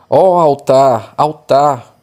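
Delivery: emphatic proclamation. Shown as a demonstration. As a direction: proclaim it boldly over the altar. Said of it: "tem que falar um pouco mais alto".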